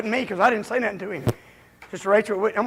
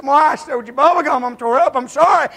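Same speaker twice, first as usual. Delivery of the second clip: earnest apology; 6 semitones higher, 12 dB louder than usual. Retold or imitated. Voices a truly sorry brother.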